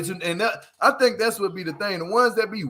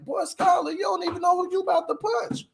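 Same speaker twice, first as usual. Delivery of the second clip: raised, incredulous shout at the TV; yelling at the screen; 9 semitones higher than usual. Real, not acted. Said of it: "I'm like".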